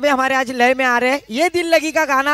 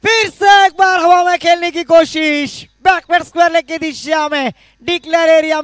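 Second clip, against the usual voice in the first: rising, louder call of a lofted shot; excited commentary; 3 semitones higher, 4 dB louder than usual. Real, not acted. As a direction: lift the voice as the ball flies. Ball hit in the air. (उत्साहित commentary)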